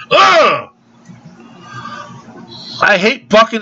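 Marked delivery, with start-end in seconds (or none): 0.1-0.7 high, exasperated groan-shout; exasperated ugh. Real, not acted. Customer fed up with fucking haters, exasperated cry. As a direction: let out a sharp, high "ugh" of disgust.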